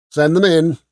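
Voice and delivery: harsh rasp. A narrator's reading. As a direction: rasp the order through the door with disdain. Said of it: "harsh, supercilious voice from within rasped out".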